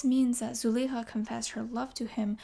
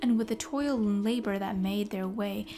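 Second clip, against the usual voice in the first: storyteller reciting rhymed verse; poem reading. Acted. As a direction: read it like an old epic poem. Reads verse poem aloud.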